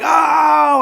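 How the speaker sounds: high, loud startled oh; surprised oh. Retold or imitated. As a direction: act caught off guard. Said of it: "we were like".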